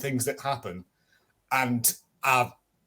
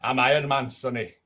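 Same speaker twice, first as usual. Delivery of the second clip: put-on terrible Scottish accent. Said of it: "That's a terrible Scottish accent".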